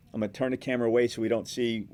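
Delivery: demonstrating a live on-air update; live reporter stand-up. Shown as a demonstration. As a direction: narrate the scene live to camera. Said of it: "as far as reporting on it".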